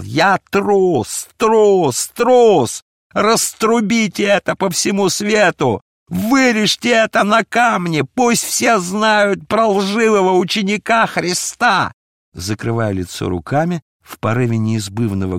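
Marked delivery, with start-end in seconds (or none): 0.0-11.9 building higher and louder on each трус; furious shout. A narrator's reading. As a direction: hurl the words in self-hatred. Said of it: "яростно продолжал". (яростный крик, нарастающий на слове «трус»)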